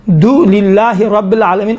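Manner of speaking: "دو" set apart, then "للہ رب العالمین"; unhurried, separated. Shown as a demonstration. Teacher telling students to pronounce it at ease, separated. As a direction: part "دو" from "للہ" with a small break. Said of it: "آرام سے آپ تلفظ کریں".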